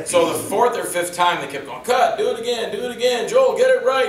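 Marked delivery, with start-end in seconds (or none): 1.8-4.1 high, loud repeated orders; imitated yelling. Crew demanding another take from Joel, mock yelling. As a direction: call out impatiently, imitating the director. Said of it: "he's yelling at me".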